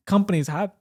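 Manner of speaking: hiccuping while talking; hiccups. Real, not acted. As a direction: speak through hiccups. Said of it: "I'm just hiccuping".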